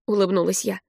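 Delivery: usual speaking voice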